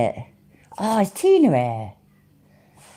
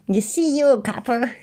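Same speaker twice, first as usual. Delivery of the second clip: higher, badly done American accent; awful American accent; 5 semitones higher than usual. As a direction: have a clumsy go at an American accent. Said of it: "My American accent's awful".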